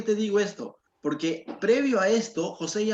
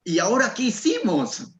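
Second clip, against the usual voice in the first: louder, higher scared brothers; frightened brothers; 5 semitones higher, 5 dB louder than usual. Retold or imitated. Frightened brothers wonder what they did wrong, anxious. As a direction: voice the brothers' panic. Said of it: "sus hermanos asustados, diciendo".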